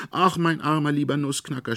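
put-on high, loud anguished cry of a girl. A narrator's reading. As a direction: wail it out over the broken toy. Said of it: "schrie Marie laut".

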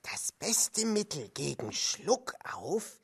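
hushed, plotting whisper. Acted. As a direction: lean in and whisper the secret. Sneaking up on Mauli.

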